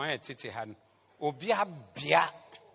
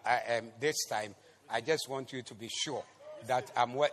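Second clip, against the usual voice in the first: lightly acted helpful go-between; 5 semitones lower than usual. Helper updating someone on their promotion, low conversational assurance. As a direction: lightly act a private word of assurance.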